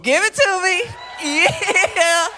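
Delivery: high, loud call for applause with a laugh; hyped shout. Real, not acted. Comic begging applause for her braces, shouting high. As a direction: whip the crowd into cheering.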